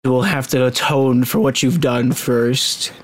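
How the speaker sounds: low, slow royal pronouncement; deep, measured monarch voice; stern king. Acted. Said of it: "but the king goes".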